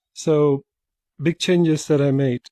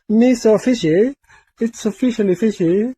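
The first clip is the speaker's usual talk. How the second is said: silly voice; 6 semitones higher than usual. Pretend. Silly voice line.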